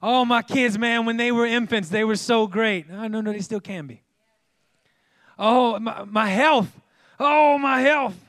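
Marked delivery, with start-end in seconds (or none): 0.0-2.9 mock whiny parent. Mocking nostalgic complainer. 5.4-8.2 high, loud mock moan about health; hammed-up lament over aches; mock groaning complainer. Mocking complaining about aging.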